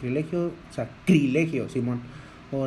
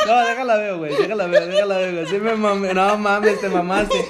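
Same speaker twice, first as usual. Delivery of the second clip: laughing; 2 semitones higher, 4 dB louder than usual. Real, not acted. Still laughing at the mistake.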